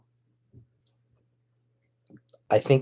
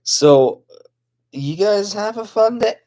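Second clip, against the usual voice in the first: much higher, louder cheerful puppet voice; 10 semitones higher, 7 dB louder, slower than usual. Acted. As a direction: chirp a bright farewell as the puppet. Puppet voice bids farewell.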